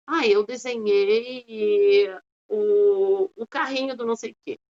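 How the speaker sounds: put-on slow, drawn-out little child's reply; child answering. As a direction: answer like a small kid who's proud of the drawing. (criança respondendo, arrastado e lento)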